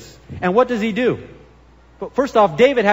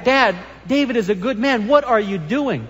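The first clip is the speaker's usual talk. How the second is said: a touch of pleading son, pitched higher; 4 semitones higher than usual. Retold or imitated. Pastor voicing Jonathan pleading with his father, mildly higher. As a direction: plead lightly with your angry dad. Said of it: "he wants to reason with him".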